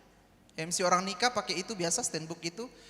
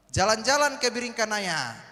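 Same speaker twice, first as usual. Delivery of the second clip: pantun line called out loud to the crowd; pantun opening line; 2 semitones higher, 6 dB louder than usual. Shown as a demonstration. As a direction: call out the pantun line loudly, inviting the answer. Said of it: "Mohon dijawab cakep ya".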